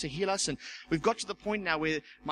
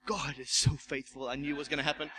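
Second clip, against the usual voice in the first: mock pious; 4 semitones lower than usual. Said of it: "I'm supposed to be spiritual".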